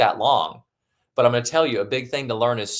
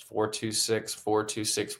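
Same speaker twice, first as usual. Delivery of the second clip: soft, unhurried counting of breaths; soft breathing-count demo; calm breathing count; 6 dB quieter, slower than usual. Shown as a demonstration. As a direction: count it out gently like you're breathing. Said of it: "really nice and slow".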